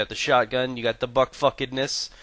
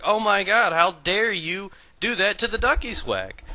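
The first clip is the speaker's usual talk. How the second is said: much higher, hammed-up shocked gasp; mock scandalized; 10 semitones higher, 4 dB louder than usual. Husband scolding his wife over the robe, high and scandalized. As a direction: play it hurt and scandalized. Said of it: "And I'm like".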